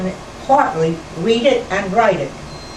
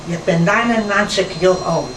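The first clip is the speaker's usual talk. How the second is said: a lightly voiced old aunt proudly announcing her age; aged aunt in Yiddish. Quoting Aunt Batux on her ninety-ninth birthday, lightly voiced old woman. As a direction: ease into an old woman's Yiddish with a touch of pride. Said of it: "I said that in Yiddish".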